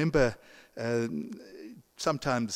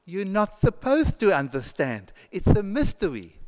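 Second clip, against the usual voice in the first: put-on little girl; 6 semitones higher, 5 dB louder than usual. Little girl answers the priest.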